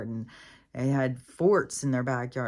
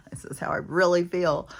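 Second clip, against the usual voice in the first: breathy half-laughed whisper, a bit louder; 4 semitones higher, 4 dB louder than usual. Real, not acted. Telling viewers how she truly feels, whispered. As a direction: let the confession slip out in a whisper. Confessing her real feelings.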